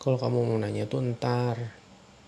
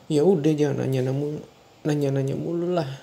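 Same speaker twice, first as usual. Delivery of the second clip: annoyed snap; 3 semitones higher, 5 dB louder, faster than usual. Acted. Suami marah ditanya-tanya istri.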